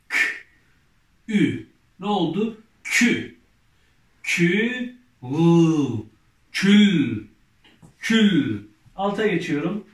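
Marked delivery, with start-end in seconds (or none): 0.1-8.6 loud, drawn-out syllable reading for the class; reading syllables aloud. Shown as a demonstration. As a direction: sound out each letter clearly, then blend them loudly. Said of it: "Devam edelim".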